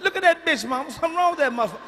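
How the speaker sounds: put-on loud, high-pitched childhood outburst; alarmed child. Seven-year-old cursing to mom about auntie, loud alarmed voice. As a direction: raise pitch and volume, insisting mom look.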